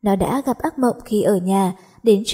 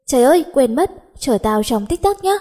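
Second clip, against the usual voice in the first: startled; 3 semitones higher than usual. Acted. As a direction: jolt awake realizing you're late. Suddenly remembers, late. (hốt hoảng giật mình)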